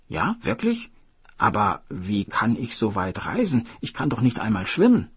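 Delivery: a hint of an eager, curious hare; wide-eyed little hare, barely put on; lightly voiced hare. Hare doubting he can travel so far, lightly curious.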